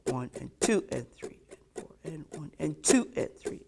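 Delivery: one and two and, hit every "two" harder; accent on two. Shown as a demonstration. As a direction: count with the stress on "two". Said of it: "Accent on two".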